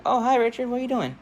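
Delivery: high, lifted greeting; friendly schoolgirl. Acted. Girl answering her new friend at school, high and friendly. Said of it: "And she's like".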